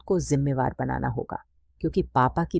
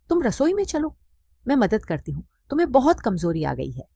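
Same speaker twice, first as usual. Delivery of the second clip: higher, gently coaxing aunt's voice; aunt pleading with the widowed mother to eat, coaxing and higher; 6 semitones higher than usual. Acted. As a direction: coax your grieving sister into eating a little. Aunt urging mother to kitchen.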